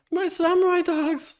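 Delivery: "samurai" high and excited. Acted. Voiced character line.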